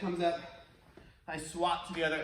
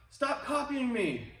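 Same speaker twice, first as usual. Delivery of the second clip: slow annoyed call; 6 semitones higher, slower than usual. Retold or imitated. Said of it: "So they shout back out".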